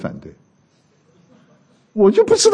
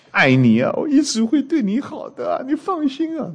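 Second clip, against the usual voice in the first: mock sweet-talk; 9 semitones higher than usual. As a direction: coax like a suitor making empty promises. 男人哄骗女人的情话. (假装甜言蜜语地哄人)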